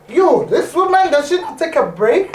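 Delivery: high, exclaiming mock amazement; amazed reaction. Host recalling her reaction to guest's pictures, mock amazement. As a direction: marvel aloud in playful disbelief. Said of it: "I'm like".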